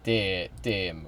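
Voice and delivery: "Teemu" tried slowly as TEH-moo; practised pronunciation. Shown as a demonstration. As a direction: slowly copy "Teemu" with a false start and an eh vowel. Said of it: "I'll start saying it correctly".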